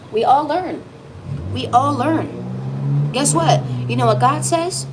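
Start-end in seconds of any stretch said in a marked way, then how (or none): 1.5-3.1 each word stretched very slowly; slow and drawn out. Shown as a demonstration. Reader repeating it slowly so the viewer gets it. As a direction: let it sink in, word by word. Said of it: "I'll show you again".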